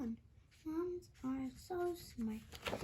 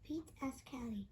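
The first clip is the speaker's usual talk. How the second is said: usual speaking voice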